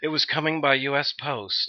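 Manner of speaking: slow, pompous mock of U S Post; mock his stuffy phrasing slowly. Teasing his friend, slow pompous mock. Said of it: "someone who says something".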